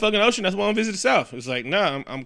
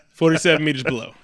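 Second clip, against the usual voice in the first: laughing; 3 semitones higher, 5 dB louder, faster than usual. Real, not acted.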